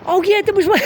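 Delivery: high, giggly; laughing. Real, not acted. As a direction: laugh through the words. Laughing at his scream.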